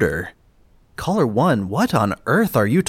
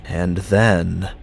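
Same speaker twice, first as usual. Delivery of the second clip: horror trailer voice; 5 semitones lower than usual. Acted. Low dramatic narration.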